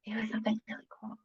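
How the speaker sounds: fast whisper, no voice; whispering to herself. Real, not acted. Whispering to herself, still trying to remember. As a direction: rush it out under your breath.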